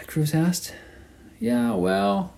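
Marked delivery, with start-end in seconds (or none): 1.4-2.3 higher, chatty northern Argentine drawl of a cabbie; sing-song northern accent. A narrator's reading. Cabbie explaining the retraining, northern Argentine lilt. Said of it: "in the sing-song accent of the northern provinces".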